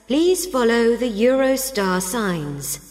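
brisk welcome announcer; train station announcement. Acted. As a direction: announce it to travellers quickly. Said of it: "Listen to train station announcements".

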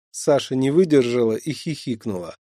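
ordinary delivery, nothing marked

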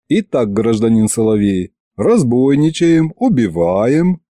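slow, drawn-out list of charges; leisurely accusing singsong; mock-official interrogation. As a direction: intone it like an investigator.

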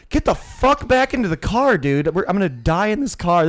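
high, loud retold yell; acted-out alarm, shouted from the car; calling after him. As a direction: holler for him to come back. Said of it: "I'm calling him".

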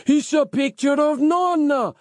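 very high-pitched excited yell. A narrator's reading. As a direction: yell it out at the top of your range. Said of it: "yelled Marco".

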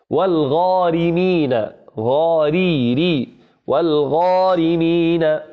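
slow, drawn-out "والغارمين" with a thin ر; light ra. Shown as a demonstration. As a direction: dwell on the light "ري" inside "والغارمين". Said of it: "إذا كانت مكسورة".

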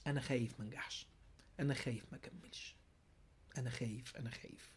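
very soft, low, near-whispered worry; timid mock excuse. One's self making excuses to you, timid and hushed. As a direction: murmur it like a secret inner fear. Self's excuse, voiced after the contrast.

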